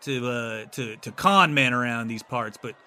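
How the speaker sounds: lightly voiced small-town lawman; a hint of a folksy city guard. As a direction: deliver a mild, measured reproach.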